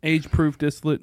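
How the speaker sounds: high, loud disbelieving echo; incredulous echo. Real, not acted. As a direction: repeat it back in disbelief. Echoing the guess in disbelief.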